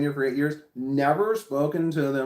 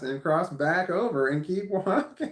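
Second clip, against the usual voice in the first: chuckling through the last words; slowed, giggling delivery; laughing; 4 semitones higher than usual. Real, not acted. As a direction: laugh as you finish the line. Laughing at avoiding neighbor.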